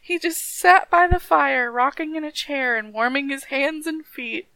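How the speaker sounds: measured storybook reading; story narration. A narrator's reading. Reading a corpse tale to a friend, story narration. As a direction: read it aloud like a spooky folk tale.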